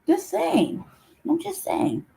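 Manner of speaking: a pouty little shrug of a line; sulky. Real, not acted. Sulky after not being heard.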